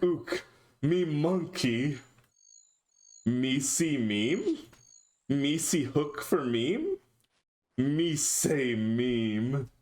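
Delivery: slow, halting caveman monkey talk; dumb monkey voice. Retold or imitated. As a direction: imitate a brainless monkey. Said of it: "He sees a word and he goes".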